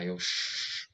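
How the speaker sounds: a quick breathy shush to the driver; urgent hushed aside. Retold or imitated. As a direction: hush him fast, so dad won't hear. Hushing the driver during dad's call.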